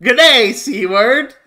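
light parody Australian greeting; mock Australian. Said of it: "Australians just greet them".

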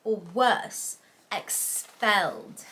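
slow, drawn-out mock British; bad British accent. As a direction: stretch it out in a badly faked British accent. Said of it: "That was a really bad British accent".

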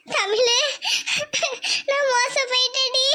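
mother sobbing out her ruin; crying. Acted. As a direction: break into sobs after the words. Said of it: "வந்ததுலயே அழுதுட்டு இருக்கு". (அழுது கொண்டே)

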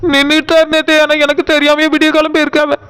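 mild tearful complaint. Acted. Wife telling aunt her husband went bride-viewing, tearful. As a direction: tell the aunt through light tears. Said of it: "நீ எதுக்கு அழுதுகிட்டு இருக்க?".

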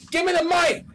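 high-pitched shouted holdup demand; yelling robber. Pretend. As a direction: shout orders like a play-acting robber. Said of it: "you wanna yell at him".

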